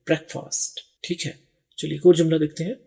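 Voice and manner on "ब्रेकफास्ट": ब्रेकफास्ट said brek-fast, short e, almost whispered; teacher's native-style ब्रेकफास्ट, short brek; native pronunciation. Shown as a demonstration. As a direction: model ब्रेकफास्ट softly as brek-fust with a short first vowel. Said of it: "वो ब्रेक बोलते हैं".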